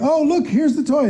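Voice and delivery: cheery parent. Retold or imitated. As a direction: brightly offer the toy again. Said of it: "And you're like".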